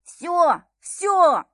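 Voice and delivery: high, loud, strangled cries; begging for it to stop; choked wail. A narrator's reading. Viktor being choked, crying out high and loud to surrender. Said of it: "сдавленно завопил Виктор".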